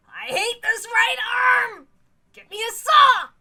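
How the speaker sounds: a lightly voiced cocky friend ribbing his partner; boisterous rival. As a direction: joke around like a sore loser. Meow's boisterous banter after losing.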